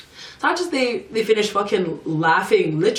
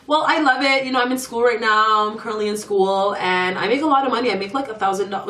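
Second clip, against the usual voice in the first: worker's breezy answer; 3 semitones higher than usual. Retold or imitated. Voicing the worker's chirpy answer.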